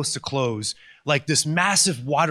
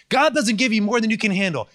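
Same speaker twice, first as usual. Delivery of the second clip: mocking a cliche; 5 semitones higher than usual. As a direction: hold up the cliche to ridicule. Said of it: "I hate the Christian cliches".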